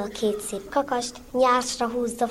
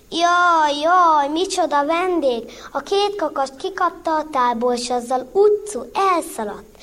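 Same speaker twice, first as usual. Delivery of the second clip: loud, higher mock lament; fake wailing; 4 semitones higher, 4 dB louder than usual. Zsuzsi fakes a wailing lament to her master. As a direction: wail as if robbed, putting it on. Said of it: "úgy jajgatott".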